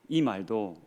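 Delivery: usual speaking voice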